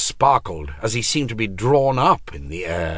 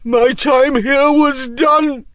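loud, slow, high insistence; insistent; 8 dB louder, slower than usual. A narrator's reading. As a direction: insist forcefully, word by word. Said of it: "insisted Macross".

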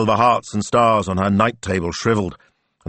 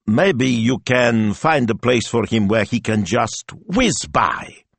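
hopeful; 6 semitones higher, 4 dB louder, slower than usual. Acted. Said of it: "he asked hopefully".

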